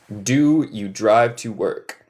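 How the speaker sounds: careful, slightly slowed teaching pace; measured model question. Shown as a demonstration. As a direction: say the question steadily for learners. Repeats question less slowly.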